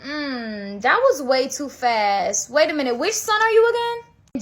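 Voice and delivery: slow doubting father, rising into a question; suspicious father. Acted. Dying father questioning which son came in, suspicious.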